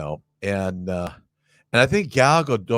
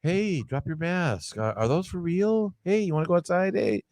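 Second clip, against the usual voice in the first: pickup lines; 5 dB quieter than usual. Retold or imitated. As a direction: lay on a hushed pickup line. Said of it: "All my pickup lines were useless".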